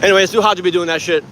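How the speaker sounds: panting after exertion; words pushed out between breaths. Real, not acted. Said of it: "I'm out of breath already".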